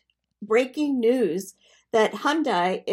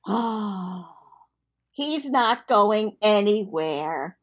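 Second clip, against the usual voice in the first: swooning sigh; much slower than usual. Retold or imitated. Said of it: "I gave a sigh like a fourteen-year-old girl".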